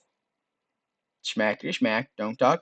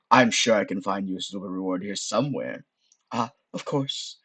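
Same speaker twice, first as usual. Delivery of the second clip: lightly voiced sorceress, dropped lower; sorceress musing; 3 semitones lower than usual. Sorceress hunting out a reward, musing aside.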